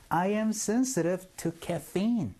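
very slow model sentence, every word spaced out; slow drill. Shown as a demonstration. Teacher leading the class drill, very slow and clear. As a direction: spell it out slowly for learners to repeat. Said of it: "시작".

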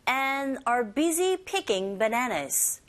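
very slow, word-by-word delivery; slow model reading. Shown as a demonstration. Teacher slowly reading the second sentence to the class. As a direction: read it out slowly so learners catch every word. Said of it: "두 번째 listening sentence 보죠".

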